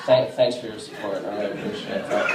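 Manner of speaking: laughing sarcasm. Retold or imitated.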